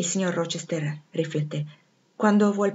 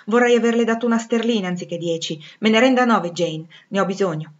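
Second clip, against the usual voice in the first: building, louder and raised insistence; exasperated demand; 2 semitones higher, 6 dB louder than usual. Acted. Master demands nine pounds back from Jane, exasperated and insistent. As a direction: push harder as the protest grows.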